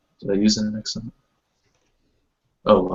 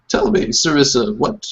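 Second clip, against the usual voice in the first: mother asking; 6 semitones higher than usual. Acted. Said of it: "she looks at you, Sarissa".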